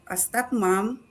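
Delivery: ordinary talk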